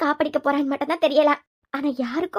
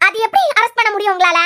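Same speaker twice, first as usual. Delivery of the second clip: indignant challenge; 3 semitones higher, 4 dB louder than usual. Acted. Woman challenging the arrest.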